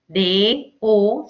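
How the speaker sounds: "D, O" as two detached beats; separated syllables. Shown as a demonstration. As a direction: split "D" cleanly from "O".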